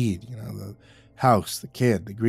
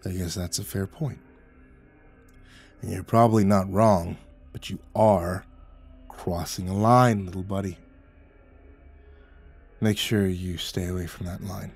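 low, quiet croak; 4 semitones lower, 3 dB quieter than usual. A narrator's reading. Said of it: "He croaked".

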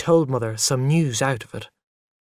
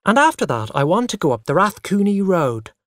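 put-on high, loud, insistent child; 6 semitones higher, 4 dB louder than usual. A narrator's reading. Boy talks over parents' argument, loud and eager. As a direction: barge in loudly with your plans. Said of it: "I said loudly".

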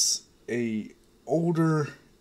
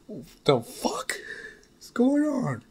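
a voiced Bakugo cursing, the last words shooting much higher; Bakugo's outburst; 10 semitones higher than usual. Bakugo stunned by his future family, cursing in a pitched-up voice. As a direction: bark the question as a stunned hothead. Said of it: "This is Bakugo's words".

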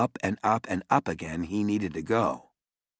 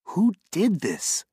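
angry demand; 11 semitones higher, 3 dB louder, slower than usual. Acted. Mother demands angrily.

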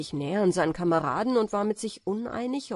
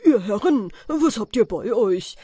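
much louder, mock-courteous bandit voice; mock polite robbers; 3 semitones higher, 7 dB louder than usual. Compass-smith playing robbers asking travellers politely, loud and mock-courteous. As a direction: ham up the robbers' fake politeness. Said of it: "und fragten ganz höflich".

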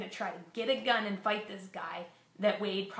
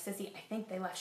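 softer, barely above a breath; hushed; 7 dB quieter than usual. Retold or imitated. Mother hiding in the closet tells Sissy softly on the phone. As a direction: keep it down so the men won't hear.

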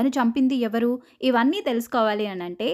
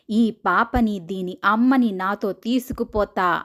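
possessed woman. Retold or imitated. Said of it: "భయంకరంగా నవ్వుతూ గట్టి గట్టిగా అరుస్తుంది".

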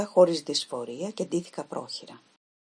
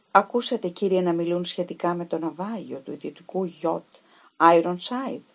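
put-on a young woman's voice, lightly raised, anxious; nervous young Helen; 4 dB louder than usual. Helen questions the detective about the yacht, anxiously. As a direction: ask it as if afraid of the answer.

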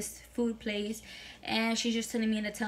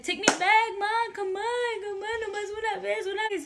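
retold crying plea; 9 semitones higher than usual. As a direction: whine it like a desperate kid. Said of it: "telling her all this crying".

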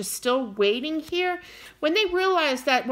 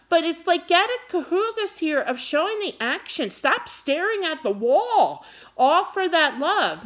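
wound up; 4 semitones higher than usual. Real, not acted. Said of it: "I'm getting wound up".

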